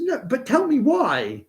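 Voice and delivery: very high, slow, pleading mock voice; imitating Anu. Tennis partner demanding his reasons, very high, slow mock voice. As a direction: draw it out, curious but disapproving. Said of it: "And she said".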